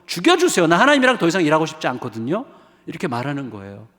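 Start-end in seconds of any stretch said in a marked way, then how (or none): 0.1-2.4 acted angry plea. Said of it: "하나님께 화가 난 거잖아요".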